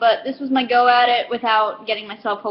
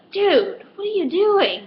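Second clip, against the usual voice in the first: higher, half-laughing dismay; shocked friend; 9 semitones higher, slower than usual. Retold or imitated. Friend scolding him at the register, higher shocked dismay. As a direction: call out your buddy's blunder. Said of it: "his friend was like".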